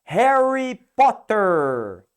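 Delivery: slow, loud American accent, strong R in "Harry Potter"; hammed-up American accent. Shown as a demonstration. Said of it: "Já o americano vai falar".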